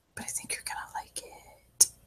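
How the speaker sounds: secretive, hushed, very soft whisper. Acting out him telling Elias the present is a secret, in a whisper. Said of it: "He whispers".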